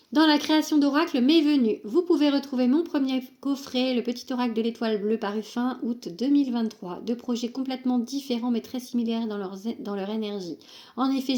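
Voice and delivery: even, fluent reading of an author's note; reading aloud. Acted. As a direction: read the written bio out straight through. (lecture à voix haute d'un texte de présentation)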